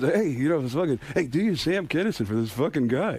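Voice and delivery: lightly voiced casual impression; Norm Macdonald. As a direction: egg someone on in a put-on voice. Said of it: "And he goes".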